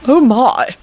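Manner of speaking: faint, dismayed reaction; weak dismay. Acted. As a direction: say it weakly, taken aback. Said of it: "Arthur said weakly".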